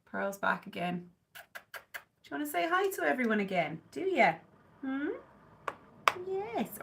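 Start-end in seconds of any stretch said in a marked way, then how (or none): 1.3-5.1 higher, coaxing voice for the cat. Real, not acted. Baby talk to the cat. 6.3-6.8 high, soft little yes. Real, not acted. Baby talk to the cat.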